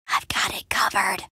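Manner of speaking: low, whispery confidence; hushed assurance. Acted. Promising to handle the guards' distraction, hushed. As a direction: keep it under your breath and sure.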